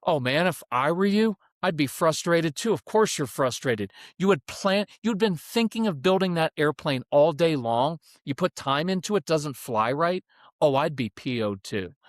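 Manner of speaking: emphatic, commiserating parent; matching intensity. Shown as a demonstration. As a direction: share the kid's frustration with energy. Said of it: "the intensity is this".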